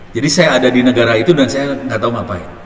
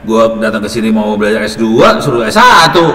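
retold argument, rising to an indignant outburst; insisting angrily; 7 dB louder than usual. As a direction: push back harder and harder at the dean. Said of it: "saya ngotot".

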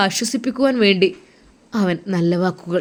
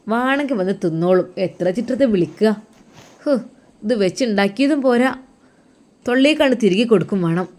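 mother's scolding call; 2 semitones higher than usual. Acted. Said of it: "ഉമ്മയുടെ വിളി അതാ കേൾക്കുന്നു".

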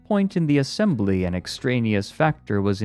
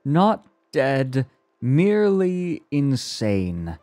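higher voice, slowing on the verdict; wild triumph; 7 semitones higher, 3 dB louder, slower than usual. A narrator's reading. Psychologist corrects the mathematician, wildly triumphant. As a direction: pronounce it with high, drawn-out relish. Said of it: "burst into body-racking gusts of wild laughter".

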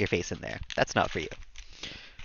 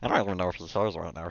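Stitch voice. Pretend. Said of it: "why I sound like that".

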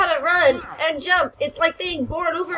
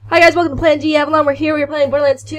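excited intro; 2 semitones higher, 7 dB louder than usual. Real, not acted. Intro to the video.

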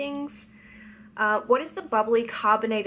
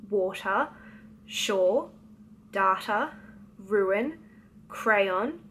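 reading word list; much slower than usual. Shown as a demonstration. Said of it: "I'm just gonna go through all of the words now".

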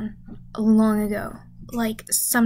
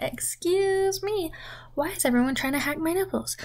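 outraged squeal; 5 semitones higher than usual. Retold or imitated. Indignant protest to the town hall. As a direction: act shocked and offended. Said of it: "I was like".

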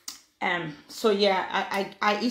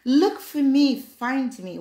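higher, louder mock plea to be chased; mocking demanding woman; 5 semitones higher, 4 dB louder, slower than usual. Mimicking women who demand to be pursued, mock plea. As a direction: tease a woman who wants chasing. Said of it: "some women will be like".

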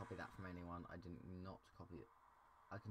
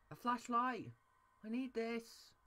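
much higher, louder happy squeal; excited squeal; 8 dB louder than usual. Real, not acted. Gamer thrilled to find a flashlight in the dark. Finding a flashlight in horror game.

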